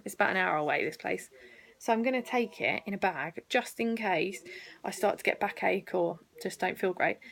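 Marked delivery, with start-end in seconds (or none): 1.8-7.2 talking through hiccups; holding back hiccups. Real, not acted. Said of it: "Sorry, I've got hiccups".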